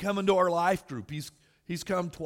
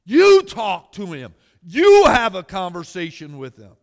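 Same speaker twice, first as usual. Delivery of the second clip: loud punch on the opening words; emphatic preaching; 14 dB louder than usual. Real, not acted. Preacher urging the congregation to talk to Jesus, emphatic. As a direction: preach it with a big, loud "you".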